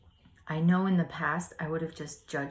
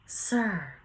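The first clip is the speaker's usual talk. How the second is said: retold yell; 5 semitones higher, 8 dB louder, slower than usual. Neighbour yelling out the window to a man in the street, retold. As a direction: call out loud and high. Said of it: "I yell out the window".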